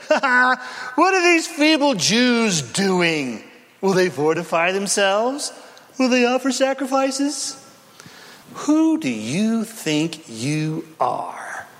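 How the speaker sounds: sneering jeer with a mock laugh; mocking taunt. Sanballat mocking the feeble Jews, sneering jeer. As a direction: taunt them like a scornful enemy. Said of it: "he mocked the Jews".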